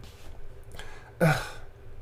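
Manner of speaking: long unvoiced sigh; Leendert's habit. Shown as a demonstration. Demonstrating a friend's habit, long sigh. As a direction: heave out an exaggerated breathy sigh. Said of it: "That's definitely Leendert".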